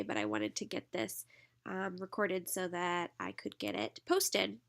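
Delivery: congested, blocked nose voice; stuffed up nose. Real, not acted. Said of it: "that I'm so stuffed up today".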